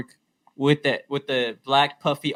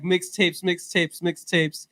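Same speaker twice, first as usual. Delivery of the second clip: imitating street hawker; 4 semitones higher, 4 dB quieter, much slower than usual. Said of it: "this guy's like".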